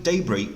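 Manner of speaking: "debris" as DEB-ree or DAY-bree, front stressed; British pronunciation. Shown as a demonstration. Teacher repeating British "debris" for students, first syllable stressed. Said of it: "영국 발음은".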